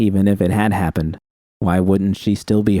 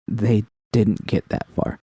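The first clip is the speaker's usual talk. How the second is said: sniffling; slower than usual. Acted. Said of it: "wiped her eyes and sniffled".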